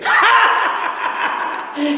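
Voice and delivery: shrill, manic forced cackle, very high; forced clown laugh. Acted. Grieving clown forcing a crazed laugh in the ring. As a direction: laugh madly through the pain.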